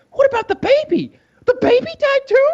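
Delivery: high, loud mock disbelief; mock shock. Friend mimicking a clueless Game of Thrones viewer, mock shock. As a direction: squawk it out as a stunned, clueless fan.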